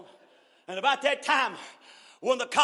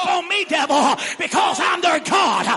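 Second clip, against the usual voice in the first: rising, shouted preacher's cadence, each line hammered; preaching at full force; 3 semitones higher than usual. Acted. Pastor shouting assurance to the congregation, full-force preaching.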